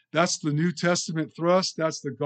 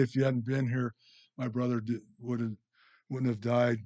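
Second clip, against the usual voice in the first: softer, lower Mary grieving at Jesus' feet; a hint of weeping, said gently; tender and tearful; 3 semitones lower, 3 dB quieter than usual. Mary, weeping at Jesus' feet, speaks to him tenderly. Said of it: "weeping, and says tenderly".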